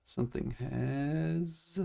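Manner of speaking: stuttering robotic connection audio; words stretched and garbled by lag; robotic glitchy audio. Real, not acted. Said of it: "Robot stare".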